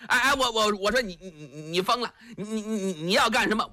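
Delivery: simple giant stammering on every syllable; lightly voiced stammering giant urging his friend to flee; stammering Li Yuanba. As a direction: repeat each syllable like a dim-witted strongman.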